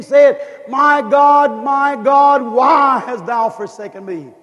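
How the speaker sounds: impassioned plea to God; crying out to God. Acted. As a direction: demand an answer from heaven in anguish. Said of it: "I say".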